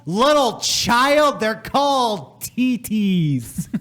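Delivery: mock scolding blowhard. Berating questioner as a juvenile, theatrically indignant. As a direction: stretch the words in hammed-up reproach.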